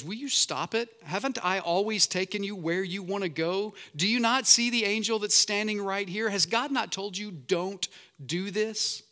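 a fed-up donkey scolding its rider; talking donkey. Acted.

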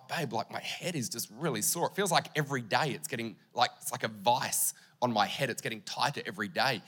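soft, low whine to his wife; low, soft moan about a sore head; quiet complaint. Retold or imitated.

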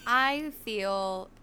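low, subdued and weary; drained, with little energy; emotionally drained. Real, not acted. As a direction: say it as if wrung out. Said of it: "emotionally drained".

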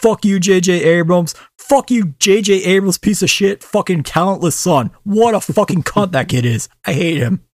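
furious rant at a director; ranting anger. Real, not acted. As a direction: tear into him with real fury. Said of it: "I am fucking fuming".

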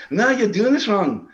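high, loud commanding voice; bossy boss voice. Retold or imitated. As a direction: bark orders like a drill sergeant. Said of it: "He's like".

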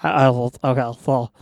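talking through sticky peanut butter; words stuck to the roof of the mouth; mouth full of peanut butter. Pretend. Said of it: "talk like you just ate a spoonful of peanut butter".

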